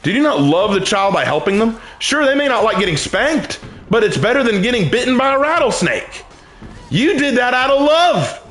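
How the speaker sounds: rising, high-pitched sermon argument; emphatic preaching. Real, not acted. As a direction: press the rhetorical point home.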